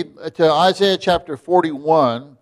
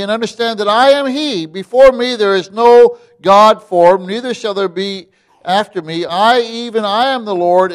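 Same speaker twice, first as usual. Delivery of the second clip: preached scripture reading; 3 semitones higher than usual. Acted. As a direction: proclaim the verses to the congregation. Reads scripture aloud.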